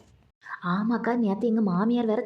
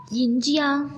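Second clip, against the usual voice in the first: surprised; 6 semitones higher, 3 dB louder, much slower than usual. Acted. Neighbour asked for ginger.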